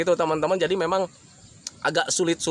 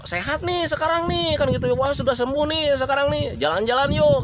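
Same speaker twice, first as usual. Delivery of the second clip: high-pitched upbeat coaxing; pleasantly enthusiastic invitation to come along; cheery encouragement; 8 semitones higher than usual. Acted. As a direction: coax them brightly, voice lifted high. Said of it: "komunikasinya itu harus yang menyenangkan".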